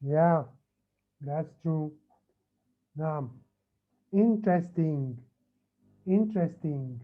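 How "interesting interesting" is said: "Interesting" deliberate, beat by beat; syllable by syllable. Shown as a demonstration. Teacher repeating the word to students, measured syllables. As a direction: say "Interesting" carefully so each syllable counts. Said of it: "How many syllables does it have?".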